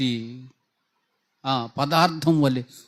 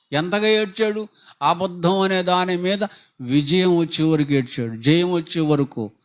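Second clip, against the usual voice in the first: louder, rising preacher's cry on ఏడ్చాడు; mounting pulpit emphasis; preaching swell; 4 dB louder than usual. Real, not acted. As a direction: drive the point home at full voice. Preacher building to a peak.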